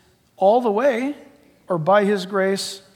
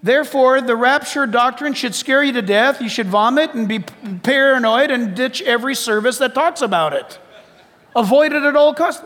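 mock scare; 4 semitones higher, 4 dB louder than usual. Mock misreading of verse.

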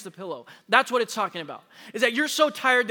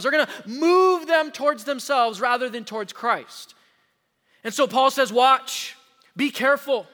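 urgent preached warning; 4 semitones higher, 5 dB louder than usual. Acted. Preacher voicing Paul urgently.

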